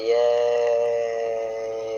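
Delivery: sarcastic, mocking yay. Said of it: "the sarcastic yay".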